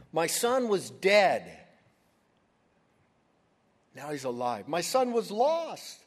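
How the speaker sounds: loud, slow and overjoyed; joyful proclamation. Acted. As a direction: proclaim it like a father beside himself with joy. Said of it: "You can see his happiness".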